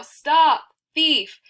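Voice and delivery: high, loud yell. A narrator's reading. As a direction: shout it out to rouse the whole neighbourhood. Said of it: "she'd yell".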